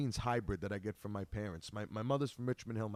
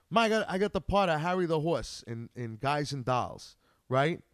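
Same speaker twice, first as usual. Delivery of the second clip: excited; 2 semitones higher, 4 dB louder than usual. Retold or imitated. Bragging to mother about part.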